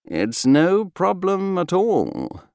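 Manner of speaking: slow, high-lilting reassurance; reassuring. A narrator's reading. Friend waving away his bunkmate's worry, reassuring. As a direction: reassure him easily, drawing it out. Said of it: "Bertie reassured".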